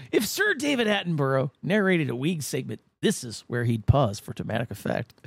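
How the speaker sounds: measured feature narration with punched key words; scripted segment read. Acted. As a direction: read it like a documentary script, pausing for effect.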